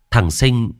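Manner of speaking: ordinary delivery, nothing marked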